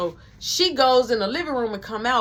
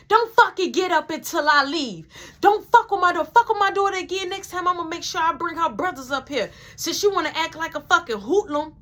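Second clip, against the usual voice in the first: angry mom; 6 semitones higher than usual. Retold or imitated. Brianna's mom yelling at the girls after the fight. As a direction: chew them out like a furious mom. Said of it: "Brianna mama was like".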